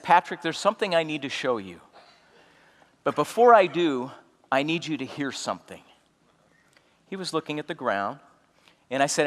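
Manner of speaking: soft, careful, hushed voice; gentle and quiet. Retold or imitated. To silent friend Patrick, softly and tenderly. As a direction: ease him into bad news gently.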